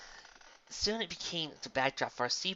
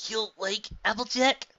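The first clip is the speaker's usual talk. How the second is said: character voice; 9 semitones higher, 6 dB louder than usual. A narrator's reading. Character voice in read story.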